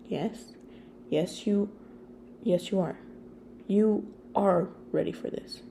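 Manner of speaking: hiccups through tears; hiccuping. Acted. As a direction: catch the breath in hiccups. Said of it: "you hiccuped".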